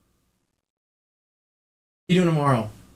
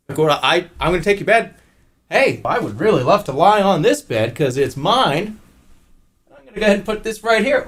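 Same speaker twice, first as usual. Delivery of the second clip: teasing the dog; 3 semitones higher than usual. Pretend. Teasing dog by taking its bed.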